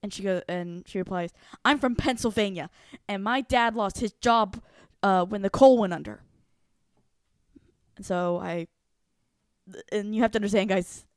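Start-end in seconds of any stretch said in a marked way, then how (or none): 1.6-6.2 heated defensive reply. Retold or imitated. Imitating classmate's heated reply.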